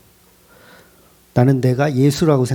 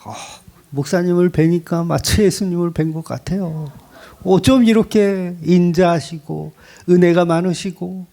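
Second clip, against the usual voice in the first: flattering churchgoer. Acted. Churchgoer flattering the pastor, mock admiration. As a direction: lightly act out a gushing compliment. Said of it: "이런 얘기를 좋아한다고요".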